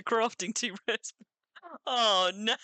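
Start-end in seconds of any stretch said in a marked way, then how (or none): 1.9-2.6 surprised. Real, not acted. Reacting to rare news.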